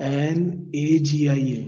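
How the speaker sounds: slow letter-by-letter spelling of एन ए जी आई ए. Shown as a demonstration. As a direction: say एन, ए, जी, आई, ए one by one, slowly. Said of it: "my pronunciation mistake". (एक-एक अक्षर धीरे)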